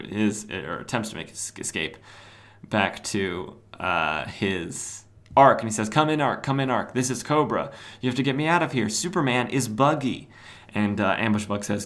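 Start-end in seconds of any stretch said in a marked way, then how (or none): 5.9-10.3 urgent radio call. Retold or imitated. Cobra radios his Ark for rescue.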